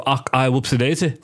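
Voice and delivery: lightly mimicked TV Scottish accent; imitated Scottish accent. Co-host retelling a sitcom scene, imitated Scottish accent. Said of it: "starts to talk Irish, uh, Scottish".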